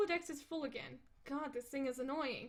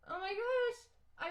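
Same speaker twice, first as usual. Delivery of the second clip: excited; 9 semitones higher, 3 dB louder, much slower than usual. Acted. Excited about drawing.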